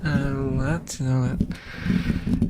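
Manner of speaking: slow sleepy voice; sleepy drawl. Real, not acted. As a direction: drag it out drowsily. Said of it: "I turn southern when I'm sleepy".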